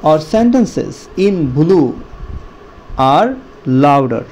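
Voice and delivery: very slow, words drawn out for pupils; slow stretched reading. Shown as a demonstration. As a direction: read it slowly so children can follow. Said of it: "মানে এর অর্থ হলো শব্দ এবং বাক্যে নীল রং যুক্ত অংশে জোর হবে". (ধীরে টেনে টেনে পড়া)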